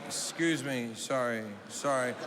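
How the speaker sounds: low, meek imitation of an embarrassed man; muted, sheepish sorry; awkward apology. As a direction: excuse yourself awkwardly past people. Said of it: "then he just leaves awkwardly".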